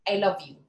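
"love" leaned on, falling; stress on love. Shown as a demonstration. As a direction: press on "love". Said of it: "asked to emphasize different words".

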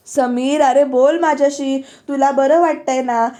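loosely imitating a wife nagging at his bedside; mild mock shouting. Wife pressing her injured husband, a mild mock shout. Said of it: "ओरडूनच बोलते".

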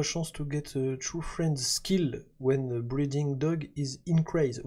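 slow, careful reading with a strong English accent. Real, not acted. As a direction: read the game text out in a thick English accent. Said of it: "j'ai un accent anglais de ouf". (lecture lente avec un gros accent anglais)

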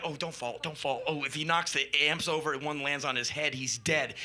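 a touch of nervous dread; worried muttering. Retold or imitated. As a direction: fret under your breath. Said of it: "And like".

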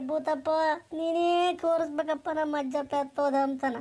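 put-on old village grandmother wailing for her lost husband; old woman's lament. Old granny crying to the village for her missing husband, wailing lament. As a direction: plead and wail like a grieving old granny.

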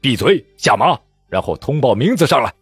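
icy, rising command; cold command. Acted. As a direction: dress him down like a subordinate. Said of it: "冷冷的道".

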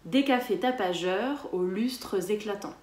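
lustres said with its e before éclatants; sounded mute e. Shown as a demonstration. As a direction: voice the final e of lustres. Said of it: "répétez après moi".

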